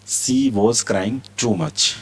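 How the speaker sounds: each word stretched out; very slow model reading. Shown as a demonstration. Teacher reads the example very slowly to students. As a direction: drag it out for learners to copy. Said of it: "teacher models example sentence".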